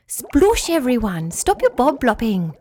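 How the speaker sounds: a hint of a bossy little fish; insistent Flugia. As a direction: call the others to stop, insisting. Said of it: "Flugia insisted".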